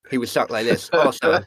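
put-on lisp, otherwise conversational; lisping impersonation. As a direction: talk with a lisp. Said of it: "I have an impersonation of Armstrong".

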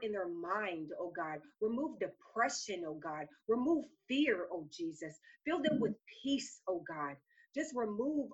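fervent spoken prayer. Real, not acted. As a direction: plead earnestly to God, phrase by phrase. Leads a prayer.

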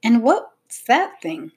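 slow, pointed demand; suspicious, insistent questioning. A narrator's reading. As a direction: draw out the question about the odd object. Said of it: "demanded Sophie".

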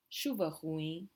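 "ruim" ends nasal like "ruing"; nasal ending. Shown as a demonstration. Teacher models nasal "ruim" after explaining the M. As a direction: let "ruim" fade into a nasal ng. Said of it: "the same with ruim here".

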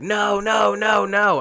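high panicked cries of no, a mom in alarm; retold panicked screaming. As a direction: mimic mom screaming no at the dog attack.

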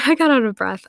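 laughing breathlessly at herself. Real, not acted.

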